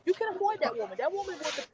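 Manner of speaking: choppy drive-through speaker sound; breaking up. Real, not acted. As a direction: voice cutting out on a bad line. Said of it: "you sound like a drive-through speaker right now".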